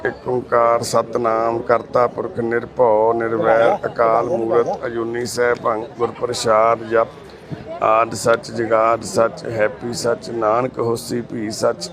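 slow, measured Sikh prayer, held on an even tone; prayer recitation. Real, not acted. Carer praying over a sick man before his medicine, slow recitation. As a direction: recite it slowly and evenly, drawing out each word.

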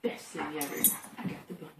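mock whisper, quietly thrilled; hushed pretend dog triumph. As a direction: breathe it like a secret victory. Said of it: "He's just like".

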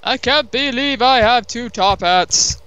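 gleeful boast. Real, not acted. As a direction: savour the prize word by word. Gloating over second top hat.

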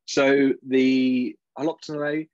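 "Holoptinae" said slowly and firmly, each syllable deliberate, like an expert; authoritative British pronunciation. Shown as a demonstration. Presenter tells the audience he'll say Latin names with authority. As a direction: announce "Holoptinae" with mock authority. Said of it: "in a strong British accent with authority".

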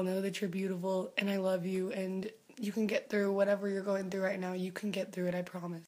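hushed, tender promise, half-whispered; fading soft reassurance to a fan who is struggling. Real, not acted. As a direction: comfort them gently, nearly whispering.

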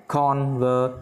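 "Conver-" with a lighter stress on its first syllable; secondary stress. Shown as a demonstration. Teacher showing the word's two stresses, secondary stress first. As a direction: stress the "Con" of "Conver-", holding it steady. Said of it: "cái này nhấn cao hơn".

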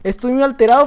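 riled up mid-game; excited gamer rant; worked up. Real, not acted. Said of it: "Perdón, me alteré".

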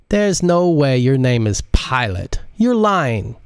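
teasing disbelief. Acted. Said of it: "Modise laughed out loud".

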